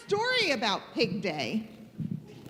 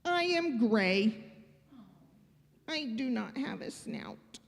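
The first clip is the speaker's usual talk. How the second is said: sad Gerald; 5 semitones lower than usual. Acted. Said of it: "Gerald is very sad".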